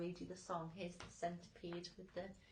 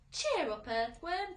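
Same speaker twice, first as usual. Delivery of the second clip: higher, louder group cheer; cheery call; 8 semitones higher, 9 dB louder than usual. A narrator's reading. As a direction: cheer the earthworm up brightly. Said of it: "they said".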